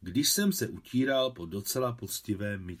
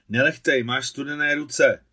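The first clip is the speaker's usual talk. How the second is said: louder protest at being tickled; cry out; 4 semitones higher, 10 dB louder than usual. Acted. Boy jolted awake by cold hands, loud cry. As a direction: yelp it out, startled awake. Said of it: "vykřikl jsem úplně probuzený".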